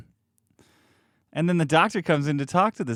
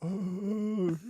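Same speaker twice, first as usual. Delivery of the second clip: zombie gasp; 3 semitones higher, 8 dB quieter than usual. Retold or imitated. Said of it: "like a fucking zombie".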